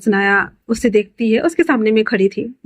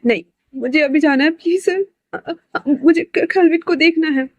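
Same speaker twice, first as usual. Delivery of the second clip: higher, tearful begging to be taken to him; crying plea; 6 semitones higher than usual. Acted. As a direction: plead through tears, voice pitched up. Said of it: "Sanaya के रोने की आवाज़ सुनकर". (ऊँची, रोती हुई गिड़गिड़ाहट)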